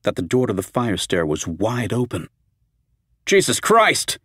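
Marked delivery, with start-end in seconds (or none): 3.2-4.2 sudden high alarmed shriek. A narrator's reading. Steve sees the open fire door, shrieks. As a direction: blurt it out in higher-pitched shock. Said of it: "he shrieked".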